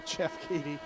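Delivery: real chuckle breaking into the name; amused. Real, not acted. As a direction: say the name through a small laugh. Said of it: "can't say that name without laughing".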